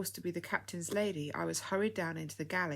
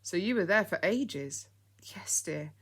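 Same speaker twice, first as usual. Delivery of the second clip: whisper; 3 semitones higher, 5 dB louder than usual. Acted. Hushed exchange after sad news.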